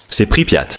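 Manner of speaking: hushed whisper; whispering while hiding. Real, not acted. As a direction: whisper so no guard hears. Sneaking into the guarded city.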